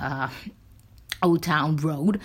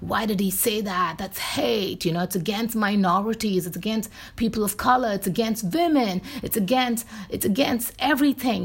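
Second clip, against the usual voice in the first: mock emotional outrage; 4 semitones higher than usual. Mocking people upset over hateful remarks, rising mock outrage. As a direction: pitch climbing higher with each "it's against". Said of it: "getting emotional and saying".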